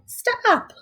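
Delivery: parents yell. Acted. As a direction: shout like parents catching her. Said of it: "her parents yelled".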